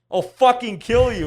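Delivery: high, loud imitation of a game character; hammed-up angry yell; mock aggressive threat. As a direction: yell it like an aggressive soldier voice line. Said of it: "are super aggressive".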